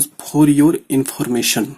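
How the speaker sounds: very slow, word-by-word dictation; dictating to a shorthand class. Shown as a demonstration. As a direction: read it out slowly so students can write. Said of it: "तो ये एक, एक advance outline है।".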